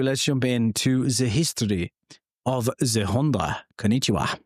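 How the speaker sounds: lightly put-on, bad Japanese accent; terrible Japanese accent. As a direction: attempt a clumsy mock Japanese accent. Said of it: "That was a terrible accent".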